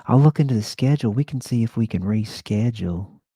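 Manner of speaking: high, fast, loud flamboyant Southern voice; Keith's Southern accent. Retold or imitated. Keith promising Andy to reschedule, high flamboyant Southern voice. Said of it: "He kinda sounded like".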